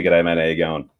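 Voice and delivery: "G'day, mate. How you going?" run together as one word; "G'day, mate. How you going?" in a relaxed Australian slur; Australian greeting demo. Shown as a demonstration. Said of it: "you gotta give me a".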